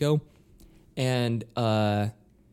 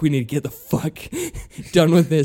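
drummer's aside; 4 semitones higher, 6 dB louder, faster than usual. Retold or imitated. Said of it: "He's like".

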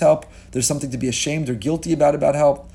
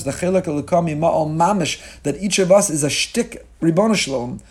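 ordinary talk, nothing marked

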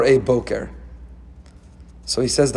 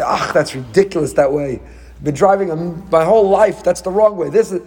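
scoffing, higher-pitched know-it-all driver; mock indignation; 3 semitones higher than usual. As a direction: protest like a stubborn driver, lightly hammed-up. Acts out a driver doubting Waze.

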